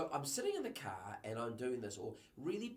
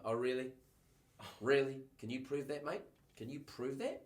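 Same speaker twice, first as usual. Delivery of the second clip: mock suspicious cop, louder on the first really; doubting police officer; 3 dB louder than usual. Police officer challenging the young driver, suspicious and louder. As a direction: needle him with disbelief.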